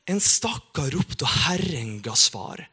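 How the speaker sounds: slow, weighty restatement of the verse; lingering on the words "En stakkar ropte"; solemn repeated verse. Acted. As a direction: say it again slowly so it sinks in.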